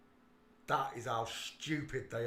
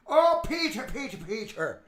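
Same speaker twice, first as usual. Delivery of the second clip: mock wail; 12 semitones higher, 14 dB louder than usual. Mock wail calling Peter.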